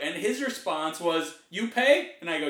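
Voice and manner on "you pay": put-on high, loud questioning Asian accent; imitated Asian accent. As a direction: mimic an Asian gardener asking in broken English. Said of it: "this is his accent".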